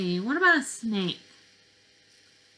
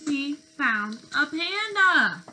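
pleased announcement; 4 semitones higher, 3 dB louder than usual. Acted. Excited discovery for children.

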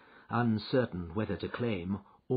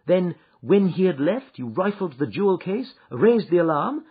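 Holmes, firm and accusing, a little louder; 8 semitones higher, 8 dB louder than usual. Acted. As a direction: press the accusation step by step.

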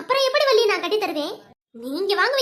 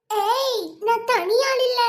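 raised, punchy hero line; movie punch dialogue; 3 semitones higher, much slower than usual. Acted. To her friends, quoting a famous punch dialogue with hero swagger. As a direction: deliver it like a film hero's boast. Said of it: "நானும் இந்த dialogue பேசுவேன்".

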